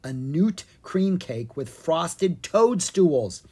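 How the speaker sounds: slow, relishing description; savoring slowly. Acted. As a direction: draw out each yummy word. Savoring the cake idea.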